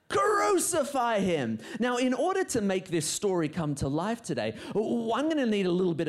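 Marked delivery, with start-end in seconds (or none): 0.1-1.6 crowd shouting louder. Acted. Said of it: "the crowd shouted even louder".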